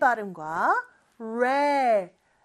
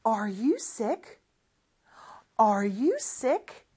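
slow model reading; 2 semitones lower, much slower than usual. Shown as a demonstration. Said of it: "이렇게 물어볼 수 있겠죠".

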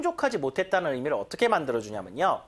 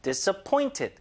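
slow demo; 2 semitones higher, much slower than usual. Shown as a demonstration. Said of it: "즉 상황이 아니라 사람이 와야 됩니다".

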